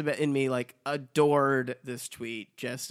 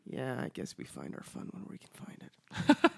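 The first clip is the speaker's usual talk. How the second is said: usual speaking voice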